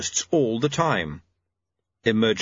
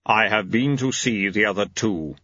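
Death. Acted. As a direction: state it solemnly, ignoring the question.

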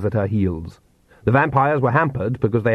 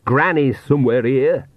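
panting; 3 semitones higher than usual. Acted. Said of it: "she panted".

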